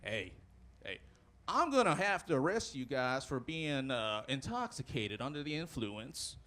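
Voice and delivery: low-pitched lawman, taking his time; Stetson-wearing lawman. Acted. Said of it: "he has his Stetson on".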